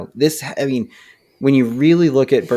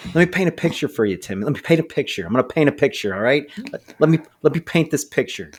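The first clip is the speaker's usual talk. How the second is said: fast, higher imitation of his deputy; imitating deputy; 4 semitones higher, faster than usual. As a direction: mimic a coworker's catchphrase, quick and lifted. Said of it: "And he'll say things like".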